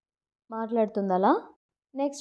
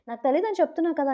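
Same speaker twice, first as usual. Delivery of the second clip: higher-pitched mild mock yell; retold angry snap; 6 semitones higher than usual. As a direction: imitate an irritated retort without really shouting. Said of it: "గట్టిగా అరుస్తాడు". (కోపంగా అరిచినట్టు అనుకరణ)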